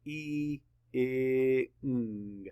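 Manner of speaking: "B, E, I, ng" as separate sounds: b, ee, ih, ng; sounded out. Shown as a demonstration. Teacher maps being's sounds for students, "B, E, I, ng" segmented. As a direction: draw out "B, E, I, ng" with pauses between. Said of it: "Map the sounds".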